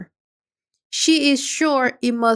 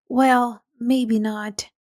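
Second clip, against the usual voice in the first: kind voice; slower than usual. Acted. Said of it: "says Alice in a kind voice".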